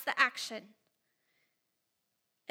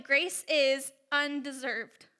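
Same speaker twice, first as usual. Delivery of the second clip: each word slow and deliberate; slow fill-in emphasis; much slower than usual. Shown as a demonstration. Teacher guiding the class to fill in blanks, slow and deliberate. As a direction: spell it out slowly for note-takers. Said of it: "So fill that in".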